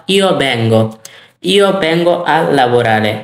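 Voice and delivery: slow, measured Italian for learners; spaced-out teacher's demonstration; slow model phrase. Shown as a demonstration. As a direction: draw each word out so learners can follow.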